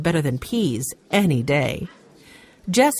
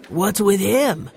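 put-on puzzled boy voice; 3 semitones higher, slower than usual. A narrator's reading. Henry voiced in read story.

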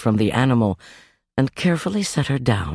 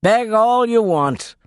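higher, slow innkeeper growl; 12 semitones higher, 4 dB louder than usual. Acted. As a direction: sneer it back at him, slowly. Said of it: "the man growled".

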